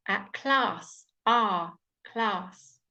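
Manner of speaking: class with a long open ah; ah on its own, then class; clear class. Shown as a demonstration. Teacher breaking class into its vowel. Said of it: "teaching you very clear pronunciation".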